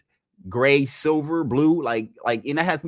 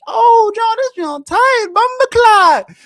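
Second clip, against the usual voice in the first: high, slow, louder Jamaican admiration; Jamaican accent; 9 dB louder, slower than usual. Retold or imitated. Coworker admiring the new Corolla, high Jamaican accent. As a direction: stretch out bumper clock high and slow.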